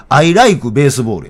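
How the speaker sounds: slow, emphatic Osaka intonation on English; Osaka-accented English. Shown as a demonstration. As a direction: insist on the Osaka accent, stretching the words out. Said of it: "いや、違う".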